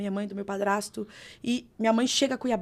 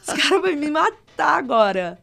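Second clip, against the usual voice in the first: mock panic; 5 semitones higher, 9 dB louder than usual. Retelling panic before being hit.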